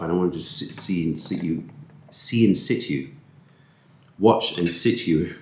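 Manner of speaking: stumbling over the phrase; fumbled, self-correcting delivery; tongue-tied. Real, not acted. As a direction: trip on the words and retry them. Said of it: "I can't speak".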